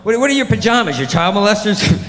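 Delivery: high, mock-appalled challenge; incredulous questioning. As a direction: ask it as if scandalized. Incredulous questioning about garment names.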